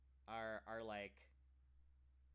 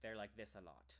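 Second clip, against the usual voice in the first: relaxed British mouth; 3 semitones lower, 4 dB quieter than usual. Shown as a demonstration. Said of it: "and British people".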